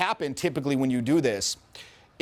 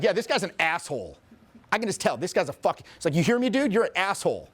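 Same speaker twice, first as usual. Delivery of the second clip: higher-pitched mock indignation; imitated accusation; 4 semitones higher than usual. Girl insulting the bystander, imitated indignation. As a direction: mimic a girl calling someone out.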